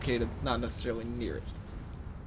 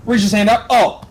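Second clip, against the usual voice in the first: loud, high blurt; sudden high-volume exclamation; loud exclaiming; 7 semitones higher, 15 dB louder than usual. Real, not acted. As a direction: burst out with it, pitched up. Player blurts out the handshake action.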